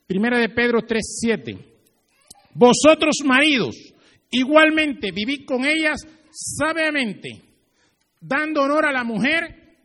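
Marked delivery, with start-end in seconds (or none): 2.5-9.8 high, loud, slow scripture reading; fervent Bible reading, slow and loud; preached scripture. Acted. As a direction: proclaim the verse to the husbands. Reads scripture with force.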